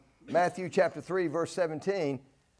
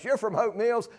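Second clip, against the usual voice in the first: higher-pitched mock-incredulous question; lightly acted snooty disbelief; disparaging; 5 semitones higher than usual. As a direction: look down on the town, playfully. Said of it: "Hope Mills is a disparaging place".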